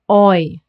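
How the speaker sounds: "oi" as one glide; emphatic isolated "oi"; German EU sound. Shown as a demonstration. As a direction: say "oi" clearly as the eu diphthong. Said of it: "they get pronounced as".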